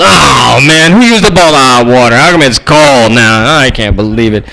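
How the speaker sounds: acted groggy gripe, dragged out; whining complaint. Riser finding the water's cold, slow whining gripe.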